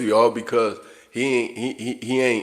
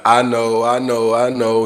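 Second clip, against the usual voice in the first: dismissive youth; 6 dB louder than usual. Retold or imitated. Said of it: "they're gonna be like".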